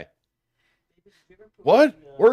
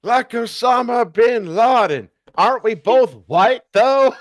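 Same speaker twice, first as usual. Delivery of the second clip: blurted shout; 4 dB louder, slower than usual. Acted. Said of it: "Clinton finished his statement".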